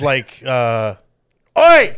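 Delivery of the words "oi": loud, high Australian "Oi!"; Australian accent. Acted. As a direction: bark it like a rough Aussie. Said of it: "Work, work on your Australian accent".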